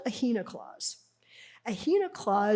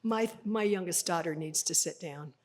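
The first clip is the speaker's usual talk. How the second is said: roundabout command; 3 semitones lower, 5 dB quieter than usual. Shown as a demonstration. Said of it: "No, I could have just said".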